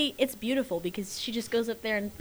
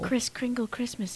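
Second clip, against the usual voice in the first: whispering; 5 dB quieter, slower than usual. Real, not acted. Repeats the joke name.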